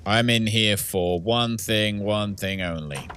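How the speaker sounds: slow, lightly menacing killer line, barely changed; movie killer. Pretend. Streamer hamming up a movie killer, mild slow menace. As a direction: drawl it out like a film villain, only a hint. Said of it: "I feel like a killer in a movie".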